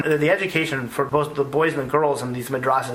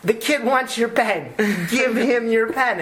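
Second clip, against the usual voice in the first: higher and slow, spelled out with a laugh; slow and emphatic; 8 semitones higher, slower than usual. Retold or imitated. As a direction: lay it out slowly like to a child. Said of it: "And I said".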